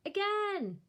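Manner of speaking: put-on high, gleeful toddler cry; delighted baby shout. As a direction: squeal it like a happy baby. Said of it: "The baby laughs and shouts".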